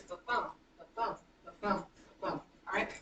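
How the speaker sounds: "ba-bum" with a light ba and stressed bum; iambic beat. Shown as a demonstration. Teacher models the pattern for class, stressing bum in "ba-bum". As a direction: chant the rhythm, weight on "bum" in each "ba-bum". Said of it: "what you're looking for is".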